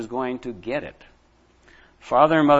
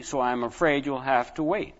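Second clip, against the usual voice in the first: stern; 4 dB quieter than usual. Acted. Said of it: "said Father sternly".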